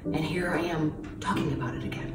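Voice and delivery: breathy whisper, close to tears; emotional whisper. Real, not acted. Interviewee retelling her illness, whispering through real emotion. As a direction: whisper it, holding back tears. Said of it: "it's been so emotional".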